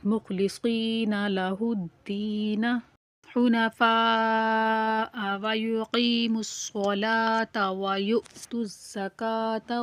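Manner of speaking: slow tajweed recitation with long drawn vowels; Quran recitation. Shown as a demonstration. Teacher reciting the surah for learners, measured tajweed recitation. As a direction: recite slowly, stretching the long syllables.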